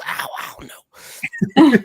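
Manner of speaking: drawn-out, high mock reply; imitating Danny's reply. Retelling Danny's answer to his whisper, high and drawn out. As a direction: lightly act out a slow, high-pitched answer. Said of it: "She goes".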